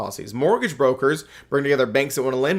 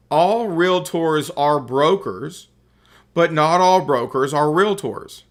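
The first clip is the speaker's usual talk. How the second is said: slow and weighty, each phrase set apart; powerful statement; slower than usual. Shown as a demonstration. Teacher to class, slow emphatic statement. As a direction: deliver it slowly like a key rule. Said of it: "I'll make a powerful statement here".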